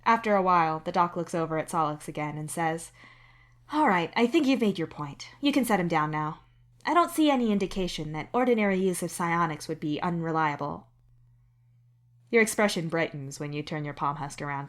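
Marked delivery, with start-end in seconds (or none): 3.7-10.9 the doctor giving measured, even advice. Acted. The doctor to the patient, calmly clearing them. The doc voiced in the story.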